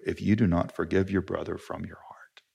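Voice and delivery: whispered, soft and grave; solemn whisper. Real, not acted. Pastor warns congregation, whispered solemnly. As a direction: drop to a whisper for the warning.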